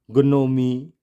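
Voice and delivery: ग्नोमी with hard g and final ee; mispronounced "gnome" as ग्नोमी; wrong, g sounded. Shown as a demonstration. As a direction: say ग्नोमी as g-no-mee. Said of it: "इस तरह से नहीं पढ़ेंगे".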